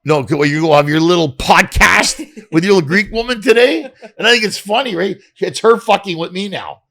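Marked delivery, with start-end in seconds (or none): 0.0-3.8 mock jealousy. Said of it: "she starts pulling my leg".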